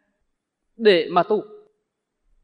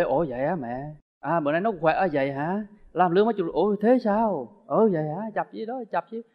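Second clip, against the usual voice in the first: patient interest. Retold or imitated. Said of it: "mình cứ nghe cho vui đi".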